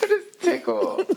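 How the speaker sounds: high, squealing laughter; helpless giggling fit; hysterical laugh. Real, not acted. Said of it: "Why are you laughing so hard".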